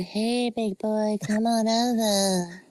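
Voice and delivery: slow, drawn-out flirty invitation; mock come-on. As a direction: drawl it like a cheesy pickup line.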